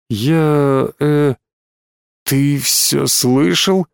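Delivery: slow, stunned dread; horrified. Acted. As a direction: ask it slowly, frozen in horror. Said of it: "С ужасом спросил Алексис".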